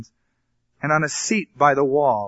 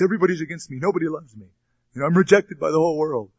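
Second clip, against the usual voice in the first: self-pitying whine; 3 semitones higher, faster than usual. Acted. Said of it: "he has a persecution complex".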